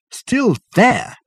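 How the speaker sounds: very high, incredulous echo; astonished. Acted. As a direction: shoot up in disbelief. Dirk shocked at the news.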